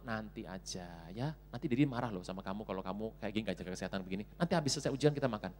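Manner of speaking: low, hushed parental reasoning; mother gently refusing. Acted. Mother warning child that Dad will mind, low and soft. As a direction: quietly put the child off.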